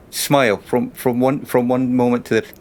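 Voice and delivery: throat catching with emotion; choking up mid-sentence; choked up. Real, not acted. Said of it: "I'm choking".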